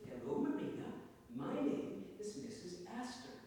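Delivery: high-pitched society lady greeting a parrot. Acted. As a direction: introduce yourself to a bird, high at first, then slowly.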